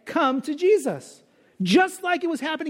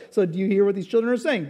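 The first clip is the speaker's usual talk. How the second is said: quicker, lighter echo of the question; Jesus replying; faster than usual. Retold or imitated. Jesus echoes the leaders' question back, quick and calm. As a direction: toss the question back calmly. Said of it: "And Jesus replied".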